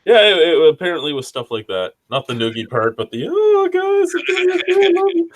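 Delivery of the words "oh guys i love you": put-on high, slow sloppy drunk voice. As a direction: gush it out like a happy drunk. Acting out his drunk self.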